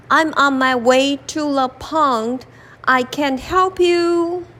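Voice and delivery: an animal shrugging off the lion; lightly voiced animal brushing off the lion; busy animal. Animal too busy to help.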